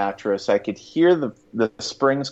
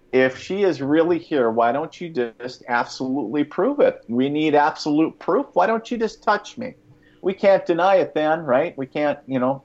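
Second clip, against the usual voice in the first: higher, goading inner voice; taunting ego voice; 4 semitones higher than usual. Retold or imitated. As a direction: egg yourself on, needling and skeptical. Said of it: "my ego picked back up and said".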